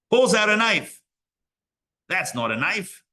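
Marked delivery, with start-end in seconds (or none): 2.1-3.0 hint of an Australian movie accent; attempted Australian accent. Rabbi quoting a movie as the knife comes out, Australian accent. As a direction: try a light, uncertain Australian accent. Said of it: "am I doing the right accent?".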